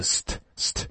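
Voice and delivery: unvoiced st, t softened toward d; bare st cluster. Shown as a demonstration. Teacher showing st cluster to learners. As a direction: hiss s then a light unaspirated t. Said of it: "前面是s发的那个s的音".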